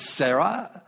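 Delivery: Sarah as "SEH-rah", with an open ah ending; Hebrew name pronunciation. Shown as a demonstration. Preacher showing the later name, Sarah said "SEH-rah". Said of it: "how to pronounce the names".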